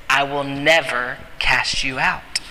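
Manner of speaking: low, hushed promise; quiet answer to doubt; calm reassurance. Acted. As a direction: bring it down low and steady, word by word. Jesus reassuring the doubting believer.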